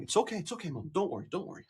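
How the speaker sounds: softly reassuring a frightened mum; soothing. Retold or imitated. Child soothing panicking mother, acted.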